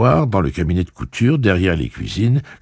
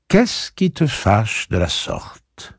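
slow, controlled calm voice; calm, slow question; 5 semitones higher, much slower than usual. Acted. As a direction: keep it slow and even.

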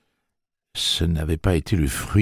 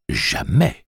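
jamais jumps high and loud; sudden loud jamais; 7 semitones higher, 6 dB louder than usual. A narrator's reading. Tic-Tac bursting out at Jake, loud. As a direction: explode on the last jamais. Threat climaxes.

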